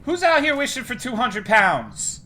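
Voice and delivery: high, loud call out. Pretend. Calling out in a high voice.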